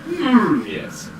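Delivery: sly, knowing shopkeeper hum; a hint of a scheming merchant. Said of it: "your D and D shopkeeper voice".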